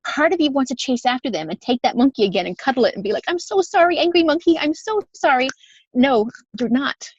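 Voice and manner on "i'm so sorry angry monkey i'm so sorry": mock apology. Mock apologizing to an angry monkey.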